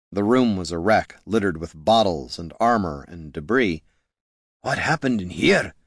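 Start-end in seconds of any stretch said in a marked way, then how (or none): 4.6-5.7 gruff dwarf voice. Acted. Gorm sees wrecked room.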